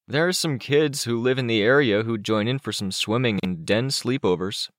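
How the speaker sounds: put-on a touch of a kid explaining; lightly voiced Chicken Little.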